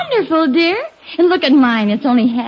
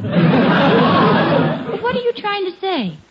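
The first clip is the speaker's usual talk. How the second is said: laughing while asking; 4 semitones higher, much slower than usual. Real, not acted. Wife teasing husband's excuse.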